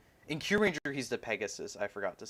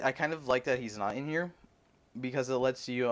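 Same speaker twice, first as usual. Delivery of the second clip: mouth full. Real, not acted. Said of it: "sorry, I had something in my mouth".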